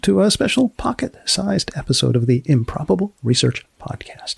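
unhurried announcer read of the show's closing; podcast outro. Acted. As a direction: sign off the episode like a radio host.

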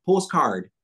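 put-on Postcard with a slight Toronto accent, pʰoʊstkʰɑɹd, both syllables stressed. Imitating Jerry's Toronto way of saying Postcard. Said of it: "this very Toronto accent".

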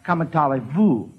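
"Comment allez-vous?" said with French sounds, plain voice; French phrase. Shown as a demonstration. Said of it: "Well, you would say".

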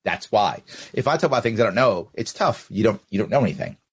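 a deep, taunting put-down; low mocking voice. Mocking a city official in a deep voice. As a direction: drop low and needle her. Mocking her, much lower.

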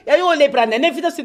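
normal talking voice

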